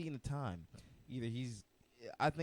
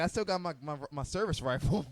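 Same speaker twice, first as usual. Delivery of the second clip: imitating grandpa; 3 semitones higher, 5 dB louder than usual. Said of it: "he's like".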